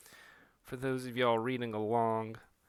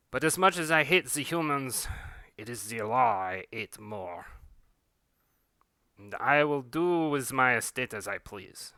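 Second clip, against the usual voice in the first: grave, lofty estate master's voice; solemn aristocrat. Acted. The estate master lecturing on the law, solemn and lofty. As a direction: intone it like scripture. Character speaks in religious verse.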